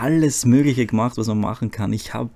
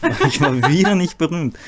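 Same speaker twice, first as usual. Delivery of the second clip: lachend; 5 semitones higher than usual. Real, not acted. Lacht über eigenes Scheitern.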